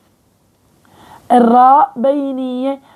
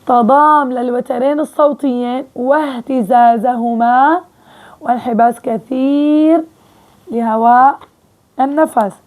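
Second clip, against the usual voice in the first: slow dictation. Shown as a demonstration. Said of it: "repeating the definition slowly".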